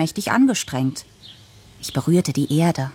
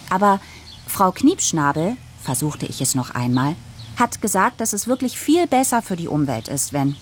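put-on pleading girl's voice; 3 semitones higher than usual. Daughter pleads with Papa.

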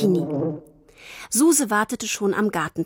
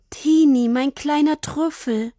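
breathed; 5 semitones higher than usual. Acted. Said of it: "Dann hauchte das Wildschwein".

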